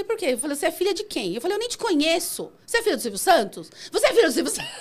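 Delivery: retold indignant questions, escalating to a high pitch. Driver retorts to passenger accusing her of kidnapping, indignant. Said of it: "Eu já fiquei brava".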